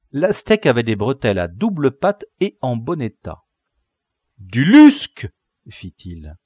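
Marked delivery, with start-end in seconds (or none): 4.4-5.3 loud, high cry of joy; delighted exclamation. Acted. Leader inspecting captive's fine trousers, delighted cry. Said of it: "Il eut une joie au pantalon".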